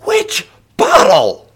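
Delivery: slow, high, roaring scream; animal roar. A narrator's reading. Woman demands which bottle, roaring like an animal. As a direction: roar each word out. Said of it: "was the animal roar that came from her".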